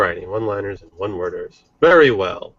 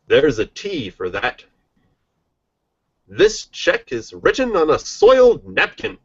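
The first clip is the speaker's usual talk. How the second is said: announcer voice. Acted. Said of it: "I'm going to do it in an announcer voice".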